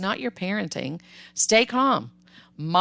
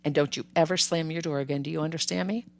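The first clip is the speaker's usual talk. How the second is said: calm stern father; 5 dB quieter than usual. Retold or imitated. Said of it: "He was very calm".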